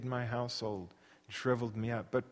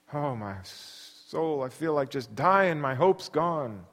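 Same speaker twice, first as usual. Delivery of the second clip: despair; slower than usual. Acted.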